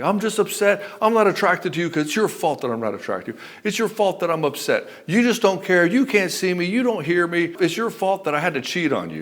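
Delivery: blaming. Retold or imitated. Acted wife blaming her husband.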